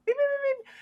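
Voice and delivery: rapid high-pitched beeps; imitated beeping. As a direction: make little electronic beeps, very high. Game master imitates a sound.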